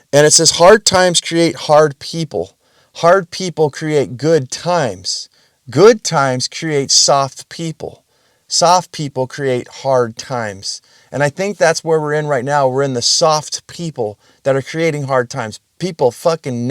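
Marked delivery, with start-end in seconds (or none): 0.5-10.8 slow, deliberate saying read aloud, every word spaced; slow quote recital. Retold or imitated. Vlogger reciting a favourite quote to viewers, slow and weighty. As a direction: let each clause land slowly like a proverb. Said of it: "this quote I heard".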